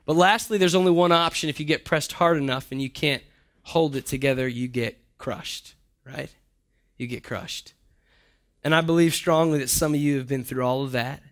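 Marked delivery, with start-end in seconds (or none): 3.6-7.7 softer, slow and heavy; hushed emphasis. Acted. Preacher driving home being crushed, hushed and slow. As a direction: drop it low and let it land.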